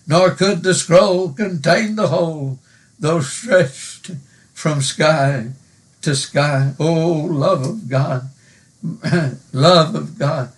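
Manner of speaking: measured, reverent recital of a hymn verse; hymn recitation. Acted. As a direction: recite it like a poem from the pulpit.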